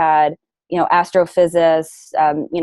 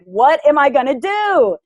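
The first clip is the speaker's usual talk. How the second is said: put-on high Valley Girl whine; 8 semitones higher than usual. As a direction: ask it like a panicked Valley Girl. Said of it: "I'm talking like a Valley Girl".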